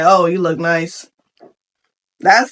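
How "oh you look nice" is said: low, understated compliment; dry compliment. Acted. Husband to his dieting wife, dry compliment. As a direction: toss off the praise with little interest. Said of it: "Don't just give no dry compliment".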